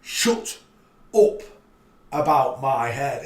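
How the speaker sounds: loud and slow, punching each word; shouting. Real, not acted. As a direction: yell it out in your own voice. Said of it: "let's have him preach it".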